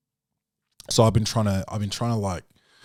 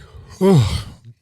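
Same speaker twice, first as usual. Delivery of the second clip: sigh; 6 semitones higher, 12 dB louder than usual. Real, not acted.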